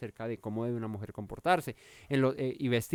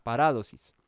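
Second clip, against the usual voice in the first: "paradosis" with RA stressed, pa-RA-dosis; stress on second A; 3 semitones lower, 3 dB louder than usual. Shown as a demonstration. Preacher showing where the accent falls, stress on RA. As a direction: lean on the second A of "paradosis", then fall. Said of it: "en la segunda A".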